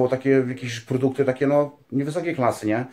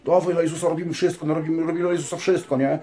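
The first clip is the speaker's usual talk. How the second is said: higher-pitched imitation of eager novices; mock youthful zeal; 4 semitones higher than usual. Mimicking fledgling priests doing all for Jesus, mock eager. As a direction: parody naive gung-ho enthusiasm.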